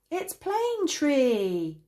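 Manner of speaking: high, slow giggly reveal; giggling. A narrator's reading. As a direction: announce it, about to giggle. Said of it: "before bursting into giggles".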